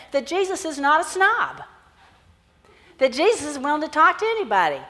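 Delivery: hopeful Bartimaeus. Acted. Preacher voices Bartimaeus hoping.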